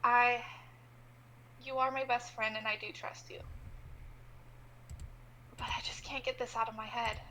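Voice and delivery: slow, soft-spoken plea to a best friend. Acted. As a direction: ease off and plead gently. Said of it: "slow down a little bit and be like".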